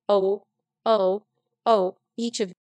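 a touch of a woman working into a rage; understated furious oh oh. Acted. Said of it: "a perfect fury".

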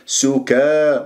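سكا with a thin, open a after ك; light kaf. Shown as a demonstration. Teacher models the right sound, thin kaf. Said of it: "مش سكا".

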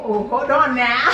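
slow laughing protest. Real, not acted. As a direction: laugh it out slowly. Startled while being pierced.

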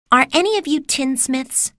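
put-on high, girlish question; young Dorothy. A narrator's reading. Dorothy asks the Winkies.

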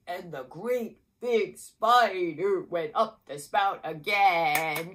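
put-on big spider version sung for kids; great big spider voice. Shown as a demonstration. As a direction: make the spider sound huge. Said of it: "Let's do it like this".

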